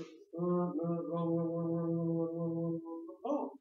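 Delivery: imitating an examiner ticking off errors, lightly voiced; a hint of a tired grader muttering wrong, wrong; weary examiner. Teacher mimics examiner judging a band-six answer, lightly voiced. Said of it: "For a six, it's sort of".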